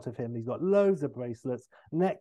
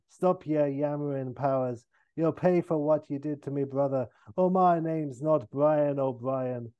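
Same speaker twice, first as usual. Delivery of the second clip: put-on Irish accent; 3 dB louder than usual. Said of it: "And O'Brien".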